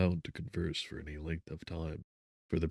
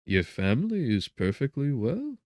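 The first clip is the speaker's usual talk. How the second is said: gentle; 7 semitones higher, 4 dB louder than usual. A narrator's reading. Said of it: "said Mister Kerwin with gentleness".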